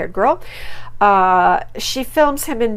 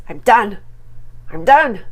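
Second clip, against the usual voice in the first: imitating Stacy; 5 dB louder than usual. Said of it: "the classic sentence".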